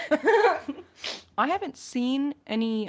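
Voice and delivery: laughing through the words, slowed down; amused, laugh spilling into the words. Real, not acted. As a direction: let a real laugh carry the line. Laughing while answering fans.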